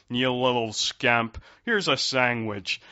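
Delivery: hammed-up fond grandpa, loud and drawn out; kindly grandfather. Imitating a grandfather to his grandson, kindly and playful. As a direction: play a doting grandfather ruffling a boy's hair, loudly and slowly. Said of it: "kindly grandfather who kind of ruffles his hair and then goes".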